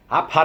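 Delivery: rapid babble imitating Geordie; garbled nonsense in a Newcastle accent; mock Geordie gibberish. Shown as a demonstration. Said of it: "Geordie to me sounds something like".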